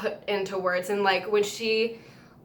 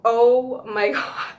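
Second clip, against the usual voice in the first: laughing disbelief; 2 semitones higher, 6 dB louder, much slower than usual. Real, not acted. Overwhelmed after the concert moment.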